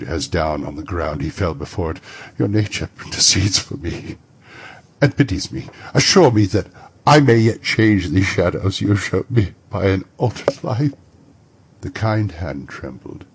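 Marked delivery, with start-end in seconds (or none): 2.4-10.9 put-on old miser begging the spirit, voice straining louder; desperate old man's plea; pleading Scrooge. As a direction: beg for a second chance.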